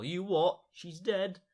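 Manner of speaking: mock stunned outburst; shocked. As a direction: blurt it out in shock. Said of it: "John's going all".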